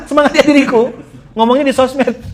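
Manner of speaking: a preacher ridiculing a self-cheering post, loud and high; incredulous echo. Acted. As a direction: echo the post back as if it can't be real. Repeats the post in disbelief.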